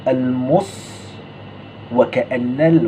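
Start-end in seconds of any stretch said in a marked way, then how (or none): 0.1-1.0 "المص" with seen thickened into saad; wrong heavy saad. Shown as a demonstration. Teacher shows what not to say, heavy saad in "المص". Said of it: "ما، لا تقل".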